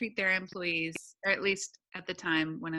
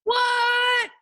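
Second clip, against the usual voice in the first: loud, high shocked outburst; shocked what; 11 dB louder than usual. Real, not acted. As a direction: blurt it out in disbelief. Shocked reply to unimpressed.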